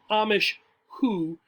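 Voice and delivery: Amish who run together fast; sped up. Shown as a demonstration. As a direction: blend Amish who into one quick word. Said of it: "speeding up the pronunciation".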